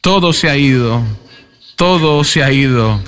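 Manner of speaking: voz algo más alta, imitando un grito de dolor sin llanto real; lamento de padre en duelo. Retold or imitated. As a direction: reclama a Dios como el padre que perdió a su hijo, con dolor contenido. Padre en duelo grita a Dios. (el predicador imita a Jorge junto al ataúd, con dolor moderado)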